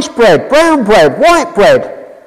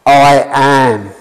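voice of God; 10 semitones lower, much slower than usual. Acted. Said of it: "And God says".

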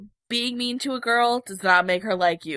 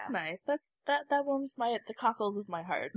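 croaky voice from a cold; rough, sick frog voice; hoarse sick voice; 11 dB quieter than usual. Real, not acted. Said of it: "my sick frog voice".

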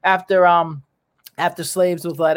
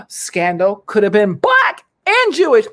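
dramatic reveal; 2 semitones higher, 4 dB louder than usual. Pretend. Dramatic reveal of Hitler's father.

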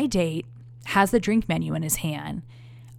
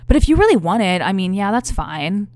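mock grudging date; 8 dB louder than usual. Quoting date grudging offer.

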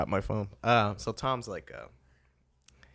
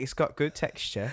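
put-on higher, laughing British accent praise; 5 semitones higher than usual. British friend repeating the praise line, higher, in his British accent. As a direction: quote the line the way the Brit did. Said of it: "he's like".

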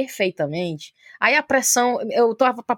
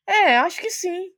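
unsure interviewer; 9 semitones higher, slower than usual. Retold or imitated.

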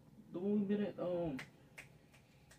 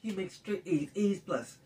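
hammed-up scolding parent, higher and louder; mock disappointed parent; 6 semitones higher, 6 dB louder, slower than usual. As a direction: playfully scold like a disappointed dad.

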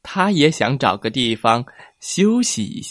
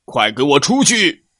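scolding; 2 semitones higher, 3 dB louder than usual. Acted. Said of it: "就听见呵斥声传来".

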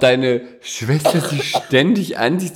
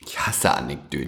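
mock disgust; 9 semitones lower, 7 dB quieter than usual. Teasing disgust at the word.

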